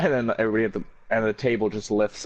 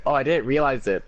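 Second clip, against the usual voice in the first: mock Louis C.K; 4 semitones higher, 3 dB louder than usual. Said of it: "I don't even know what this voice was".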